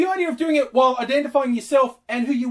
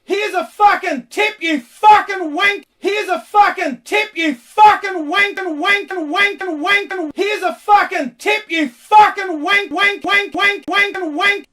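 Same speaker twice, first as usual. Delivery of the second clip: mock furious rant; 3 semitones higher, 3 dB louder than usual. Ranting mock tirade.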